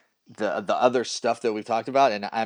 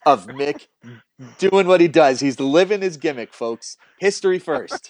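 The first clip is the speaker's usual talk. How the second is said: lightly hammed-up emcee presenting an act; a touch of ringmaster, punched up; mock announcer; 3 semitones higher, 6 dB louder than usual. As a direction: announce it to the crowd like a playful showman. Mock introduction of guest's gimmick.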